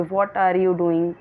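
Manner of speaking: "What are you doing?" dragged out word by word; teacher's example of how not to say it; wrong, slow way. Shown as a demonstration. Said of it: "हम ऐसे नहीं बोलेंगे".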